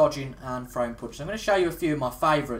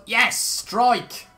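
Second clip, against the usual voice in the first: cheering strike; 8 semitones higher, 5 dB louder than usual. Real, not acted. Celebrating a bowling strike.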